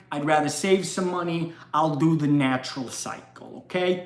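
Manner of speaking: put-on light New York Jewish accent. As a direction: kvetch about the money in a Jewish accent. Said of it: "Give me a, uh, good Jewish accent here".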